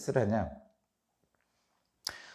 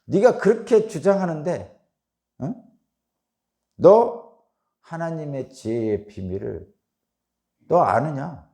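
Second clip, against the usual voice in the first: emphatic challenge with raised bursts and pauses; acted rebuke; 3 semitones higher, 4 dB louder than usual. Preacher voicing Zophar reproving Job, emphatic mock scolding. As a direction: press the accusation, punching openings louder. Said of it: "욥에게 막 갖다 이렇게 막 책망하고".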